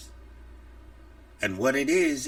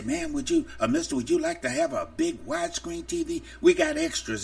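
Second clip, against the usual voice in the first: smooth hustler pitch; 12 semitones higher, faster than usual. Retold or imitated. Thieves pitching stolen TV.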